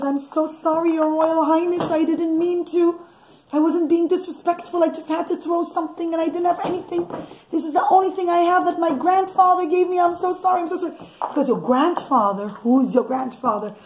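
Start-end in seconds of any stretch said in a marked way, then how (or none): 0.0-10.9 put-on pleading girl. Osnat pleading apologetically to Yosef.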